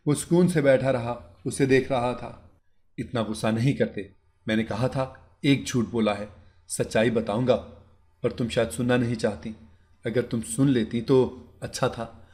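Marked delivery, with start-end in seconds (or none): 3.0-12.3 gentle husband, slightly quiet; calm him down, coaxing her softly; husband soothing his angry bride, soft tone. Acted. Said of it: "वो नरम लहजे में बोला".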